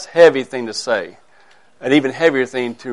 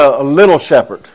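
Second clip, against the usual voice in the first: little leaned on, slightly louder; stress on little; 4 dB louder than usual. Shown as a demonstration. Preacher telling his flock the shepherd is little, stress on little. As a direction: hit the word little to make the pastor small. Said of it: "I emphasize the word little".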